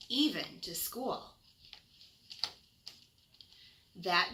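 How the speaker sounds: gentle bedtime storybook reading; reading to children. Acted. Reads picture book to children.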